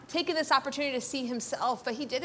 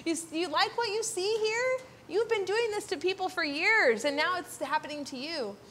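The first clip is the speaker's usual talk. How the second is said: lightly voiced God, higher-pitched pointed questions; God confronting Jacob; 4 semitones higher than usual. God holding up a mirror to Jacob, lightly voiced confrontation. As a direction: confront him a little teasingly, pitched up. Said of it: "God's holding up a mirror to Jacob and saying".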